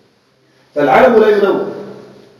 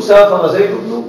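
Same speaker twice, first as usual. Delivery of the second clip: slow example sentence; slower than usual. Shown as a demonstration. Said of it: "فقلت".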